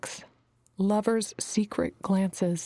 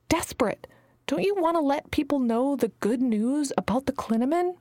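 lightly raised, pressing plea; eager pleading young woman; 5 semitones higher than usual. Acted. Alana urging Messenger to launch, a lightly raised eager plea. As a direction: push her to let you spread the word.

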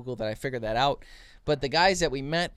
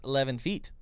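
put-on Israeli accent. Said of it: "And I'm using an accent".

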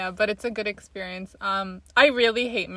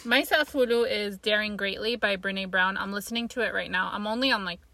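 exaggerated cartoon intonation; 3 semitones lower, 4 dB quieter than usual. Real, not acted. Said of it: "Why are you talking like this?".

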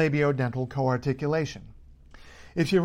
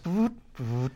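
motor buzz; 4 dB quieter than usual. Shown as a demonstration. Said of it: "you might make a vroot noise".

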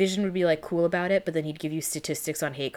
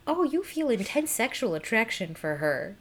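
lightly imitated alien empath, pitched up; Mantis; 5 semitones higher than usual. Empath exposes a friend's crush, lightly imitated. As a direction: announce someone's secret feeling with mock wonder. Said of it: "The thing that she does to Peter".

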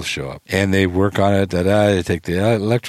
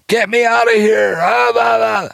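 high, loud trapped scream; panicked scream; 13 semitones higher, 3 dB louder than usual. Retold or imitated. Gene trapped in the elevator, screaming for help, high and loud. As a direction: yell like you're stuck in a box. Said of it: "I hear Gene screaming".

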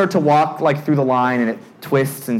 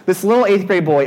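ordinary talk, nothing marked

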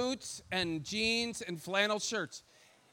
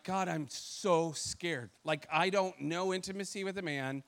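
hushed fearful plea, sinking lower; quietly scared prayer; 4 semitones lower, 5 dB quieter than usual. Retold or imitated. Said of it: "I'm like".

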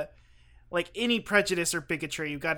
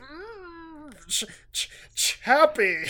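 hammed-up creature voice, winding up to the name; Chappie; 10 semitones higher, much slower than usual. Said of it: "That's not what he sounds like at all".

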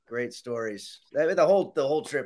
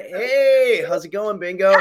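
talking to the dog; 5 semitones higher, 4 dB louder, slower than usual. Real, not acted. Greeting the dog.

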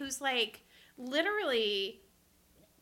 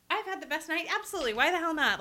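1 eager yes; 5 semitones higher, faster than usual. Retold or imitated. Eager yes to a wine offer.

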